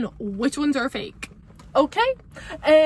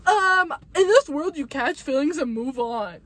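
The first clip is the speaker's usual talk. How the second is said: mock dismissive ex. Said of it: "They're gonna be like".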